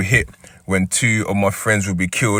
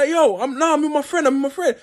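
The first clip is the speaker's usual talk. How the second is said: mocking Clamp. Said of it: "He go".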